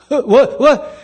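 mock just-woken confusion; short, bewildered grunts of a sleeper waking; groggy waking. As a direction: play someone startled out of sleep. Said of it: "coherent when you wake up".

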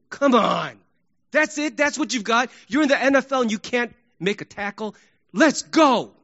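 exasperated fan complaint; disappointed outburst. Acted. Fan to player who missed tackle, greatly disappointed. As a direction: berate the player in disbelief. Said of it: "a statement of the greatest disappointment".

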